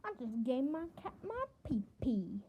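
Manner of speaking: whispered secret to the camera. Acted. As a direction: breathe it out like a naughty secret.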